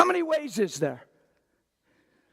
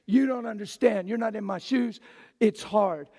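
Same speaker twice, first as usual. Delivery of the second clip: mock complaint; 5 semitones lower than usual. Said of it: "what they're saying is".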